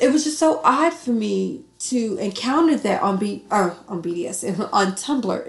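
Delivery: talking while high, a bit loose; slightly stoned, stumbling over words. Real, not acted. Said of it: "Again, I'm high".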